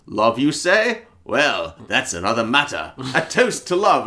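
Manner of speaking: lightly voiced, suddenly chipper Gump; a hint of jolly toastmaster; mock sudden cheer. Gump switching to a cheery toast, lightly voiced. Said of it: "Gump just immediately one eighties".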